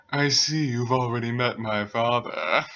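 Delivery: smooth, mellow put-on voice; low mellow voice. Son addressing new girl about his father, mellow disdain. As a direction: speak smoothly, with mild disdain. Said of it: "It was low, mellow, pretty sounding".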